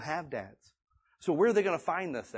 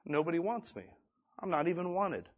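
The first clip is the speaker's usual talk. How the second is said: put-on hurt inner child; 2 semitones higher, 6 dB quieter than usual. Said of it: "some of you just think like".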